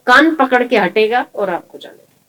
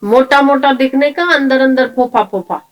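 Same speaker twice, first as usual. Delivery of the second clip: butter up the master eagerly; flattering servant; 5 semitones higher, 3 dB louder than usual. Retold or imitated. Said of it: "बोले". (सेठ की हाँ में हाँ मिलाता चापलूस नौकर)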